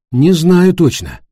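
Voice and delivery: choked-up reply, pitched high; tense, strangled uncertainty; strained voice. A narrator's reading. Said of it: "ответил Ника сдавленным голосом".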